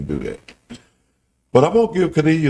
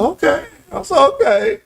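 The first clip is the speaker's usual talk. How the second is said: retold reply; 4 dB louder than usual.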